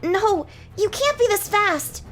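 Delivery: high, loud slow panic; disbelieving cry of panic; panicked knight. Acted. Knight panics mid-fight.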